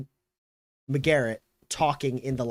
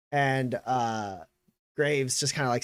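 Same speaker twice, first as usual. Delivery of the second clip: usual speaking voice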